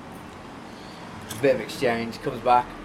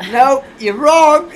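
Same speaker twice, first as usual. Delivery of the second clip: high, loud, slow gloating "Nope, you're wrong"; host revealing the answer, loud and slow; gleeful reveal; 11 semitones higher, 11 dB louder, slower than usual. Real, not acted. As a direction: savour telling her she's wrong. Gleeful game-show reveal.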